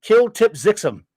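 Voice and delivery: Kill Tip Zixum said slowly, name reversed; backwards speech. Shown as a demonstration. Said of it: "And backwards".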